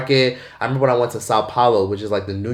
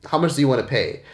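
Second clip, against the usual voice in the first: cold curt question; faster than usual. Retold or imitated. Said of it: "And he goes".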